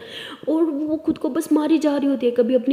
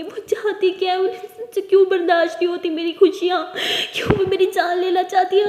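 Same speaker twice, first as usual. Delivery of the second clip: higher, tearful accusations; 4 semitones higher than usual. Acted. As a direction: pour out grief through tears. Ishani crying to brother.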